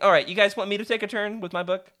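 bright, loud eager host; eager offer. Real, not acted. Host offering his turn to friends, eager and loud. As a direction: jump in keen to read.

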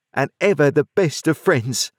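the blacksmith's heartfelt farewell; Joe, tender. A narrator's reading. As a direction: Joe to Pip, tender and moved. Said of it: "said Joe".

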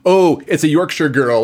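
mock Yorkshire accent. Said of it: "some kind of accent".

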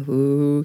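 a low "Ooh" sound; a low "Ooh" to model the right sound. Shown as a demonstration. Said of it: "We wanna make low tones".

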